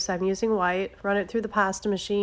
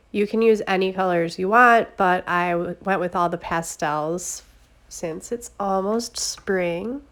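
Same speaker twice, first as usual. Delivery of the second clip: blocked nose from a cold; stuffy nose. Real, not acted. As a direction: speak through a stuffy sick nose. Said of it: "I'm sure I sound real stuffy".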